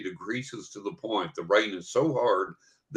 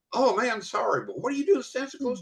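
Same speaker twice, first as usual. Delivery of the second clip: buddy's voice; 14 semitones higher, faster than usual. Retold or imitated. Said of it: "a buddy of mine comes out and goes".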